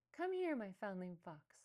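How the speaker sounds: loud call to the kits in the den; mother fox calling her kits inside. A narrator's reading. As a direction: call them over, loud and open. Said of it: "she called".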